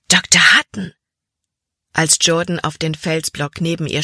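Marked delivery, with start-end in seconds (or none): 0.1-0.9 sudden loud cry of recognition; startled cry. A narrator's reading. Girl recognizing the betrayer across the stream, startled cry. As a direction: blurt the name out in shock. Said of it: "Ein leiser Schrei entfuhr Libby".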